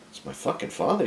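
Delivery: high, strained retort without extra volume; indignant protest. Retold or imitated. Grieving son answering his wife, acted indignant protest. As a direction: pitch it up in wounded outrage.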